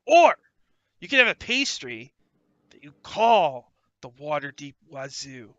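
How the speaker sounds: loud eager gnome salesman; excited gnome pitch. Acted. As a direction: pitch the deal like a pushy salesman. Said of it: "Gaxley's like".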